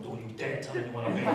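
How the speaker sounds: giggling through a hushed mock warning; real laughter breaking into the quote; laughing. Real, not acted. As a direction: laugh the words out softly. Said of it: "This is making me laugh".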